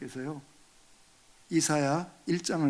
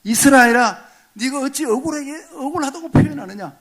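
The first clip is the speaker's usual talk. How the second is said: voicing God; 8 semitones higher, 8 dB louder than usual. God rebuking Israel in sermon.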